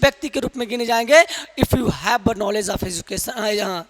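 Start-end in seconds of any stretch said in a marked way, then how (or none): 1.6-3.3 slow English. Real, not acted. Teacher speaks slow English.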